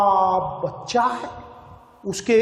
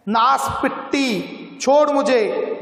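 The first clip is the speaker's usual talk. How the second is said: angry shout; 3 semitones higher than usual. Acted. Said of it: "बच्चे वाली औरत ने चिल्लाकर कहा".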